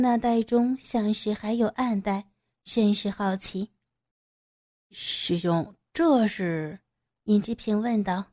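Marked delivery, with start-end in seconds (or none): 4.9-6.8 put-on timid young man. A narrator's reading. Younger disciple asks timidly.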